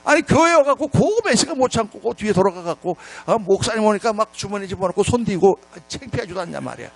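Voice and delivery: mildly indignant telling-off, re-enacted; retold scolding. Pastor telling off hiding smokers, mild retold scolding. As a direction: nag them as in a retold scolding. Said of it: "막 내가 야단쳤어요".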